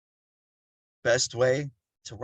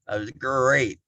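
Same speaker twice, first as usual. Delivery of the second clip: lightly imitated cartoon catchphrase; a hint of a mascot's drawn-out "great"; Tony the Tiger; slower than usual. Speaker quotes a cereal mascot, light imitation. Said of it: "like Tony the Tiger".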